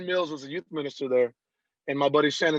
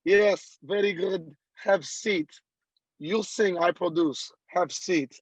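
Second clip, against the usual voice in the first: put-on lightly done Russian accent, clipped no articles; a hint of a Russian producer; Russian producer telling the singer to sit, light Russian accent; 3 semitones higher, slower than usual. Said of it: "he's Russian guy".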